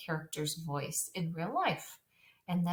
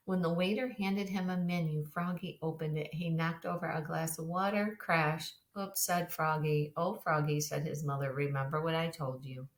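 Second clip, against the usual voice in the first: level, understated story reading; unrealistic, unexpressive reading. Shown as a demonstration. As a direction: read it evenly, with no feeling for the characters. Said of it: "something very realistic, is it".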